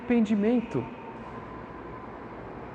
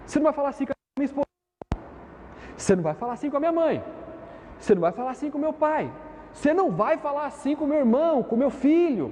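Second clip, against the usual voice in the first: fast, higher protective outburst; indignant protest; 5 semitones higher, faster than usual. Retold or imitated. Preacher acts out someone defending his family, fast, higher and indignant. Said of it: "Você já ouviu alguém falando assim".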